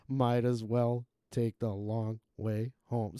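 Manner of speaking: slow, flat, tuneless line; monotone voice. Retold or imitated. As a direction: drone it out like a bored singer. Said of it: "most monotone voice".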